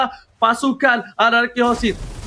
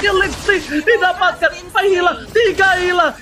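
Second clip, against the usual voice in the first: excited shout; 5 semitones higher than usual. Real, not acted. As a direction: shout the kill count. Caster calls kills climax. (teriakan bersemangat)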